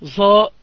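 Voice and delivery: ظاء said as a plain za like common speech; imitating common people saying ظاء as za; colloquial z for ظ. Shown as a demonstration. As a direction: say ظاء the way laymen do, as za. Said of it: "كي يقولون العوام".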